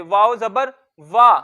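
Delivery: वाव जबर वा spelt slowly, वा with open mouth and short; spelling drill. Shown as a demonstration. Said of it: "जबर मुंह खोल के अदा करेंगे". (मुंह खोल कर छोटा वा)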